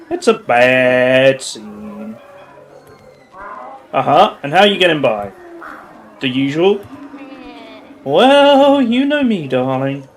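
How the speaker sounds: purring, teasing femme fatale; sultry lady voice. Acted. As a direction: play the flirty bar regular. Plays sultry bar lady character.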